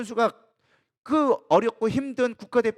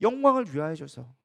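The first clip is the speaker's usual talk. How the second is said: ordinary talk, nothing marked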